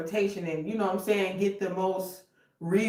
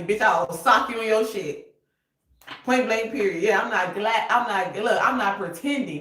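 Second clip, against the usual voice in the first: louder, laughing then hard mock threat; tough-talk threat; 3 semitones higher, 6 dB louder than usual. Warning fake friends for the viewer, a loud mock threat. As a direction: put a fake friend in their place.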